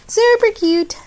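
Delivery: high, gushing compliment. Real, not acted. Vlogger gushing over a birthday card. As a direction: squeal it happily.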